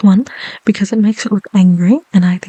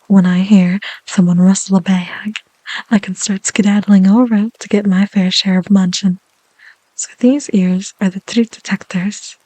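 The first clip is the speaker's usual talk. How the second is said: whisper. Real, not acted. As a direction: breathe the words gently. ASMR whisper.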